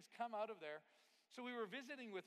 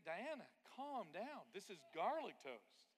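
calming; 3 semitones higher, 4 dB louder, slower than usual. Retold or imitated. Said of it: "I'm beginning to think".

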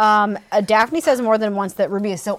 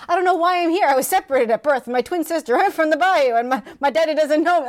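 higher-pitched retold girl blurting everything; mock innocent, pitched up; naive oversharer; 5 semitones higher than usual. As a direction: imitate an earnest girl spilling her story.

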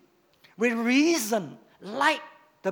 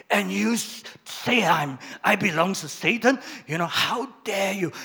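louder, indignant mock outrage; indignant protest; 4 dB louder than usual. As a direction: protest as if deeply insulted. Offended member protests pastor.

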